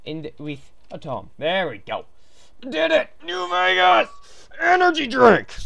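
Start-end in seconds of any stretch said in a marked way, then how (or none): 2.6-5.5 high, loud exclamations; punchy high-pitched cheer; excited announcing. Pretend. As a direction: call each item out like a hype man. Mock-excited calling out.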